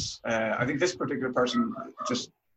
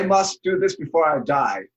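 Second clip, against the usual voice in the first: lightly put-on German accent, a touch higher; 4 semitones higher, 4 dB louder than usual. German tourist pleading a bucket-list case, German accent. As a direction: say it like an insistent German. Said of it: "say that in a German accent".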